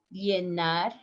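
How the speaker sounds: llenar starting on a buzzed j sound, "jenar"; voiced zh pronunciation. Shown as a demonstration. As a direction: say llenar with a firmer j onset. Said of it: "Listen the pronunciation".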